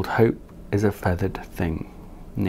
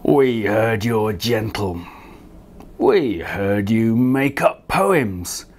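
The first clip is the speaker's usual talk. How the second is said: mild lion growl. Acted. Fierce lions warn Leonard, slow stern voice. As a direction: scold him like a pack leader.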